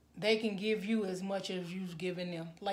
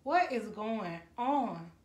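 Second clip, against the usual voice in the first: teary; slower than usual. Real, not acted. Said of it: "I'm getting teary-eyed".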